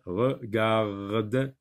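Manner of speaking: regarde in separate beats with the R set apart; regarde split up. Shown as a demonstration. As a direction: break regarde into re, gar, de, sounding each R. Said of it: "le son R".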